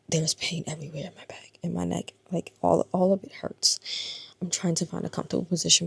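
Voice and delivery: whispered through back pain. Real, not acted. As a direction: breathe the words out, hurting. In pain, hurting back and neck.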